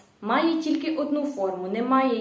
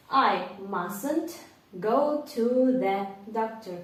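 slow model sentence; slower than usual. Shown as a demonstration. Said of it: "Також проговоріть вголос".

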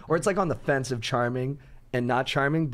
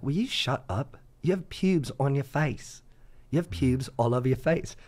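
imitating an insulting British woman; slow, drawn-out mock British taunt; British accent. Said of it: "she just keeps going".

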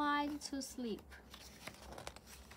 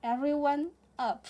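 loud storytelling; 2 semitones higher, 6 dB louder than usual. Acted. Owl's loud revenge climax.

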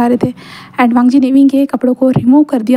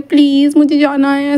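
drawn-out, mildly whiny please; pleading; slower than usual. Acted. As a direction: beg lightly to be allowed out. Wing begs to go outside.

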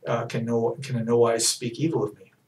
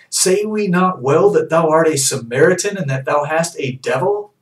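loud accusing quote; accusing shout; 5 semitones higher, 7 dB louder than usual. Retold or imitated. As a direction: hurl the accusation.

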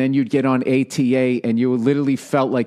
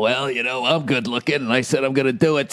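George Clooney. Pretend. Plays George Clooney in interview.

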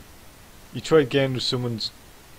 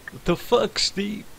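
higher, indignant disbelief; outraged; 9 semitones higher, slower than usual. Real, not acted. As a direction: call Steve out in disbelief. Indignant reaction.

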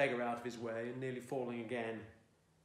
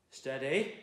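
squeak; 4 dB louder than usual. A narrator's reading. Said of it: "it came out a squeak".

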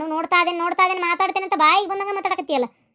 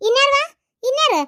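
higher, louder "who else?" retort; indignant shout; 6 semitones higher, 4 dB louder than usual. Acted. Woman retorting at the son-in-law's family, loud indignant shout. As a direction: fling the question back hard.

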